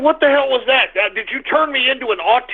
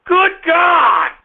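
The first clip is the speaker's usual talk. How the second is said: exasperated shout; 4 semitones higher than usual. Real, not acted. Host exclaims after a caller.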